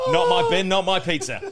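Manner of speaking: theatrical West End delivery. Pretend. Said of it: "sounds like a fucking play on the West End".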